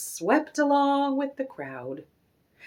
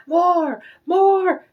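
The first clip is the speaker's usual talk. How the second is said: high loud cheer; delighted calling out; 8 semitones higher, 8 dB louder than usual. A narrator's reading. Delighted shoppers calling for more, excited cheer. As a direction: cheer for an encore. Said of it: "the surprised but delighted shoppers called out".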